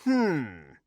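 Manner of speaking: drawn-out pondering hum; thoughtful "hmm"; hummed "hmm". A narrator's reading. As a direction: hum it as a puzzled old mage. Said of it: "hummed a master mage".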